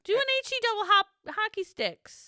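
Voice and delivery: playful jokey aside. Real, not acted. Joking about censored swear.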